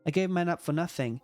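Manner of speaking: lightly acted plea to stay; a touch of desperate clinging, read in character; pleading game character. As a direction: beg a friend not to leave, understated. Game character begs Rain to stay.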